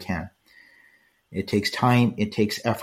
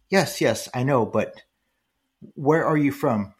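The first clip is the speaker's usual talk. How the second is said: higher pitched mock imitation of her; imitating her speech; 4 semitones higher than usual. Young woman insisting where he's from, higher mock imitation. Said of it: "she was speaking just like that".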